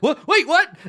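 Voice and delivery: high, loud, laughing confusion; confused bugbear. Acted. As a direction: blurt it out in surprise. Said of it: "he's like".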